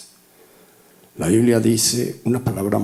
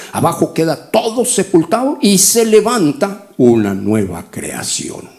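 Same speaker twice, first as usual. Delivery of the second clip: raised, emphatic pulpit delivery; louder, driving preacher's build-up; emphatic preaching; 3 semitones higher, 4 dB louder than usual. Real, not acted. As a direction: preach it out, pitch climbing to a peak. Preacher building up on baptism doctrine.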